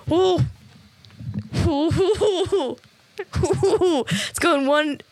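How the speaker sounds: playful high whoosh, things flying overhead; whooshing noise. Retold or imitated. Ideas flying over men's heads.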